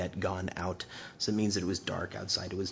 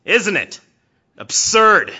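much higher and loud, taunting; scoffing challenge; 11 semitones higher, 13 dB louder, slower than usual. Retold or imitated. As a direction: goad your brother, sneering. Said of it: "he's like".

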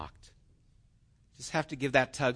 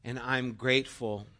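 prayer; 4 dB louder than usual. Acted. Leads closing prayer.

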